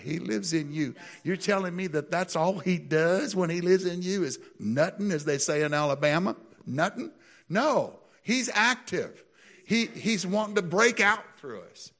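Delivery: high, loud, preaching at full force; rising preaching. Real, not acted. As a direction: build up and preach it out.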